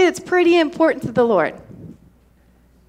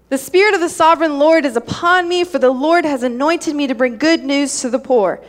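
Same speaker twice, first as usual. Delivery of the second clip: scripture reading. Acted. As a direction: read it out to the church. Reads Isaiah 61 aloud.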